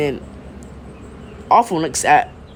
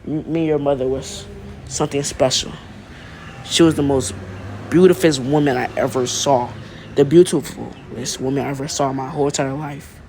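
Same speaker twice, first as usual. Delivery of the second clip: reunion voice; faster than usual. Acted. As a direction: speak it like a tender reunion. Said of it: "reunion type voice".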